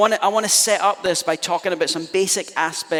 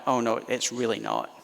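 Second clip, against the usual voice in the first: false humility; 4 semitones lower, 5 dB quieter than usual. Retold or imitated. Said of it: "master of false humility".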